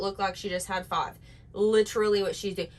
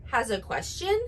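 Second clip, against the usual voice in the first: mock influencer uptalk. Shown as a demonstration. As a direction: parody of influencer uptalk on "everything you say has a question". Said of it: "No, I did that wrong".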